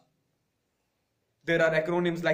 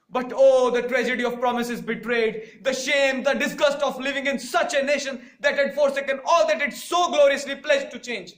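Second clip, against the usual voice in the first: impassioned lament; 5 semitones higher, 4 dB louder than usual. Acted. Rising lament in the speech.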